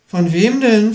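high, alarmed question; high-pitched shocked kangaroo; startled kangaroo. A narrator's reading. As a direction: ask it with a sudden fright. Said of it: "fragt das Känguru erschrocken".

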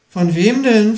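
high, alarmed kangaroo voice; startled. A narrator's reading. Kangaroo hearing the ghost is hunted, startled. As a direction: ask it with a jolt of fright. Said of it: "fragt das Känguru erschrocken".

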